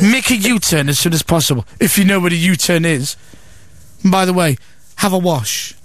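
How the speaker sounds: lightly voiced snooty sat nav; snotty sat nav. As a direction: talk down to the driver as a navigation voice. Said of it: "sat nav is a snotty cow".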